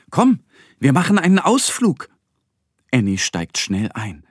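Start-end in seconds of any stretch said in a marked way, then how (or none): 0.1-2.1 high, loud, eager invitation; excited. Acted. Moon man inviting the duck aboard his rocket, excited call. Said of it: "winkt Annie aufgeregt zu".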